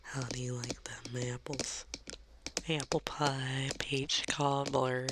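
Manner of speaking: unhurried, lingering Southern delivery. Pretend. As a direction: stretch every word out, Southern style. Slower Southern take, with food names.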